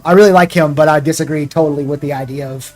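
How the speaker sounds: ordinary talk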